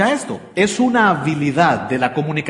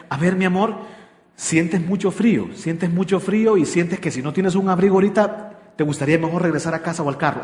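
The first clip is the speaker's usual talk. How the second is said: active listening demo. Shown as a demonstration. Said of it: "una manera de comunicarme".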